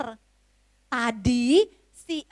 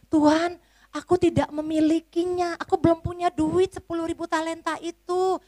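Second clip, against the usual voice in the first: afraid servant; 5 semitones higher than usual. Acted. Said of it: "dia merasa takut".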